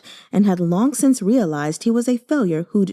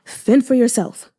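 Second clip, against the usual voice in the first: cold calm; 4 semitones higher, 4 dB louder than usual. Acted. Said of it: "assumed a cold calm".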